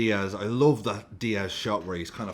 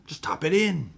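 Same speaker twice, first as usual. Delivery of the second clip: frustrated call; 10 semitones higher, 5 dB louder than usual. Real, not acted. Shouting after the whisper.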